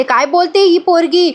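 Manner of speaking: mildly acted indignant questioning; retold scolding. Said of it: "ओरडते आणि म्हणते".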